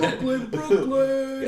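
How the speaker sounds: slow put-on voice. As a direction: stretch it out in a goofy voice. Echoing Brooklyn as a bit.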